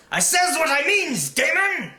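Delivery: high, loud, slow threat in swamp dialect; the guard threatens the prisoner, loud swamp accent; menacing swamp accent. Acted. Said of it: "menacingly shook his raised right fist".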